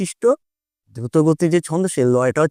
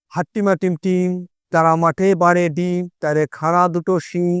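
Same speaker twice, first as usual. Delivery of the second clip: quick rhyme recital. Shown as a demonstration. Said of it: "দেখো এটাও কিন্তু দ্রুত গতি".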